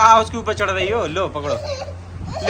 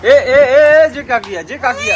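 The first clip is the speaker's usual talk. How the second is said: louder, higher warning cry; alarmed calling out; 8 semitones higher, 5 dB louder than usual. Real, not acted. Mum calling out to stop her toddler, sharp and loud.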